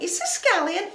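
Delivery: put-on high Derry Girls lilt; exaggerated Northern Irish accent. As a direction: mimic a Derry girl, rising at the end. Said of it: "it sounded like Derry Girls".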